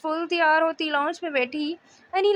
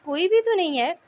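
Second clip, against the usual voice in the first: stammering; 3 semitones higher than usual. Acted. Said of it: "हकलाती बोली".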